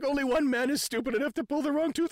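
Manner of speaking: high-pitched, mock hysterical voice; imitated helpless, tearful hilarity; laughing to tears. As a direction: wail it as if crying with laughter. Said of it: "He's crying".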